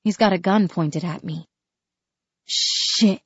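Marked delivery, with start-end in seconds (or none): 2.5-3.2 sudden high exclamation; exclaiming. Acted. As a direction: blurt it out in shock. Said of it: "I exclaim".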